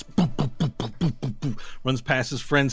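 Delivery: quick popping boops for footsteps; running sound effect. Acted. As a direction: imitate running feet with little boops. Mimes a character running.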